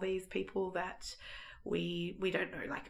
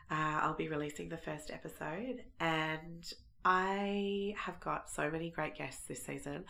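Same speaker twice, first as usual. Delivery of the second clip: croaky voice. Real, not acted. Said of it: "bear with the croaky voice".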